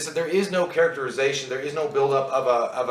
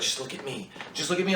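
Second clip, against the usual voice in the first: soft, calm coaxing of a dying partner; imitating calm; 8 dB quieter than usual. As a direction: gently hold his attention, voice quietened. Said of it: "'Cause she was so calm".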